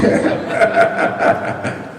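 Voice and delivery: soft airy laughter; breathy laugh. Real, not acted. Author keeps laughing about his age. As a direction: laugh quietly.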